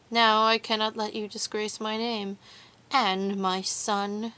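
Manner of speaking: lightly mocked official husband, firm at the start; mimicking her husband. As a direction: imitate a husband's formal reprimand. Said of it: "Mimicking her husband".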